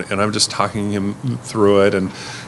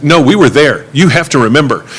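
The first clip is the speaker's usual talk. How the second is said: mock belligerent insistence; 4 semitones higher, 5 dB louder than usual. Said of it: "she just got more belligerent about it".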